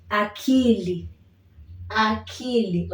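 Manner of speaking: akili said a-ki-li with clear i; Swahili akili. Shown as a demonstration. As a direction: model akili for repeating. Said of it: "The second one is akili".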